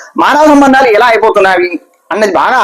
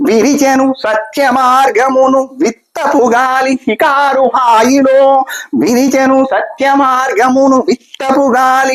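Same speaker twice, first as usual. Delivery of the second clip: slow, drawn-out verse chant, each line repeated; sing-song the verses slowly, stretching the line endings; poem recitation; much slower than usual. Acted. Recites full poem for viewers.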